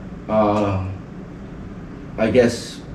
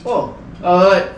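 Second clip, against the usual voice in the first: put-on baby babble; 7 semitones higher than usual. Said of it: "like, baby talk".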